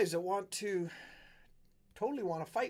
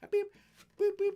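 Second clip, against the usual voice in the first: high, far-off squeaky voice bleeping out swears; a tiny angry man spitting censored curses; censored swearing rant; 4 dB louder than usual. Retold or imitated. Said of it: "He's like".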